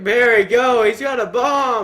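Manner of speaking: high, loud hammed-up alarm; mock urgent warning. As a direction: warn your friend like an action movie. Acted warning in retold story.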